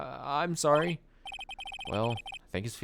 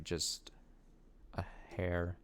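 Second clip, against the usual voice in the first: whisper; 7 semitones lower, 12 dB quieter, much slower than usual. Real, not acted. Whispered aside while adjusting mic.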